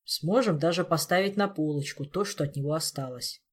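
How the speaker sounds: dour, matter-of-fact grim remark; gloomy Elmar. Acted. Elmar grimly describing what remains, gloomy and understated. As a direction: keep it dark and unexcited. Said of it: "мрачно вернул Элмар".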